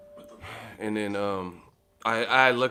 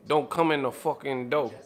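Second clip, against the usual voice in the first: impression of a rapper; 3 semitones higher than usual. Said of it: "she sound like a rapper".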